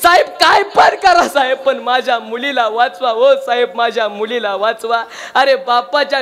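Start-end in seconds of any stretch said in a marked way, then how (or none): 0.0-5.0 a father pleading with the police, crying out ओ साहेब then sinking; begging father. Acted. Father begging the police officer to save his daughter, pleading. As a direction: beg for your daughter's life.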